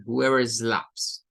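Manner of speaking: whoever slaps drawn out very slowly; slow quote. Shown as a demonstration. Teacher slowly quoting the verse. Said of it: "se mantiene la idea de, eh, slaps".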